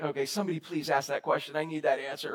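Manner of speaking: whisper-ish shy hope; meek quiet voice. Retold or imitated. Shy girl hoping someone asks, meek and soft. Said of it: "Sophie's probably meek and quiet".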